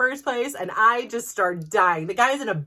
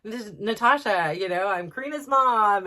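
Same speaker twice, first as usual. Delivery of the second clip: high, louder, eager hello to strangers; overly bubbly greeting; 3 semitones higher, 5 dB louder than usual. Retold or imitated. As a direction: put on a chipper meet-the-family voice. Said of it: "I wanted to be like".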